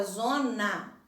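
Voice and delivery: "zona" split, final A opened. Shown as a demonstration. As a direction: say "zona" showing the open A at the end. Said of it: "a letrinha A é aberta".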